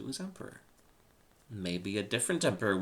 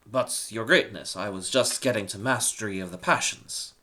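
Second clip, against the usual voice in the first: mild protest to the Emperor; a touch of pushback, still respectful; objecting; 7 dB louder than usual. Acted. Slave objects to the Emperor, lightly protesting.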